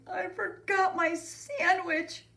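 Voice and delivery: high, slow wail of dismay; sad. A narrator's reading. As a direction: wail it like an upset kid. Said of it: "Buster said sadly".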